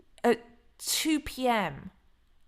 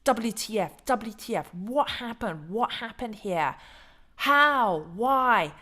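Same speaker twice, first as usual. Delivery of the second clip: exasperated outburst; 2 semitones higher, 3 dB louder, slower than usual. Retold or imitated. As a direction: let the frustration boil over by How and Why. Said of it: "I'm like".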